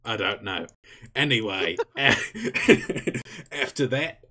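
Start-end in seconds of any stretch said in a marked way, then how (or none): 3.5-4.2 Australian briefing. Acted. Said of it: "Why have you turned into Mick Dundee?".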